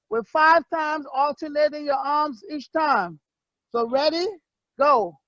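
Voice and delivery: slow, shouted call to the class; coach's call. Real, not acted. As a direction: call it out across the gym, slowly.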